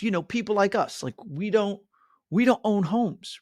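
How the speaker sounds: a hint of the friend, matter-of-fact; Naomi's voice.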